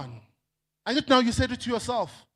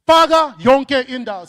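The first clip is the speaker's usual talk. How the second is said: louder slogan with faka punched; 3 semitones higher, 5 dB louder than usual. Shown as a demonstration. Speaker leads the crowd in repeating the slogan, loud. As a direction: call out faka yonke indawo for the crowd to repeat. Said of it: "Say it after me".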